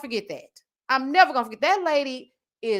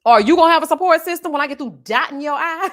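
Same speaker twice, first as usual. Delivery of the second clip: louder, laughing mockery of the question; mocking retort; 4 semitones higher, 8 dB louder, faster than usual. Mocking the nurse's question back at her, loud and laughing. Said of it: "Ma'am, go to hell".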